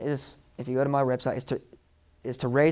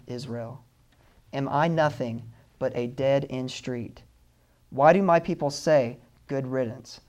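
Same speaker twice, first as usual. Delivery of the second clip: heartbroken God. Shown as a demonstration. Preacher rereading God's lament so listeners hear his hurt. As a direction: read it again, letting God's heart break through. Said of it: "Listen to it again and listen to his heart".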